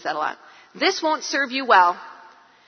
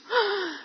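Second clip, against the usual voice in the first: higher, breathy mock gasp; 7 semitones higher, 4 dB quieter than usual. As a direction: gasp like a shocked teen. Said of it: "he's like".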